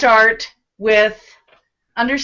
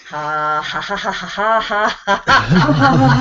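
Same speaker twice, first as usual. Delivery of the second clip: gentle giggle; 3 semitones lower, slower than usual. Shown as a demonstration. Teacher leading laughter yoga: belly giggle. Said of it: "deep breath in".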